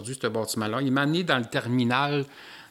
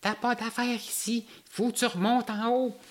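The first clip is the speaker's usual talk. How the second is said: reptilian alien speaking in a much higher, slower voice; 10 semitones higher than usual. Retold or imitated. Reptilian alien warning the intruder away, very high voice. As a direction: squeak the order out high and slow. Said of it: "parler avec une voix très aiguë".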